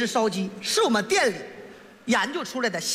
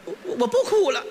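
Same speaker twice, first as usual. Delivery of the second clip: pretend tearful customer. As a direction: stammer as if just done crying.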